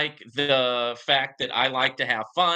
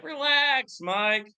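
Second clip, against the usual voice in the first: catchphrase shout; 11 semitones higher, much slower than usual. Acted. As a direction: belt out the show's catchphrase. Catchphrase called out louder.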